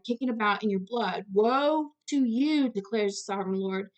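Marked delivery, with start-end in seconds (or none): 1.3-2.7 slow and higher, a drawn-out prophetic "Woe to you"; solemn woe. Acted. Preacher reading God's judgment to the congregation, slow and raised. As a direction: stretch it out like a prophet's warning.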